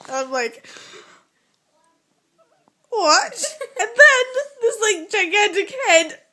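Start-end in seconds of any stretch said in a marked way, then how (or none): 2.9-6.2 high, loud words through laughter; real laughing. Real, not acted. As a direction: tell it while cracking up. Cracking up at own story.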